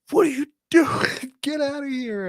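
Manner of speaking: squeaky high mock ref voice; hammed-up high ref impression. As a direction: imitate the ref in a silly high voice. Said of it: "the fucking refs was like".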